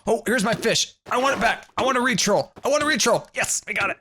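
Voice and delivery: imitating the troll in a high squeaky voice; squeaky mock voice of the rival. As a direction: play him as a squeaky gleeful troll. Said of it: "was just like".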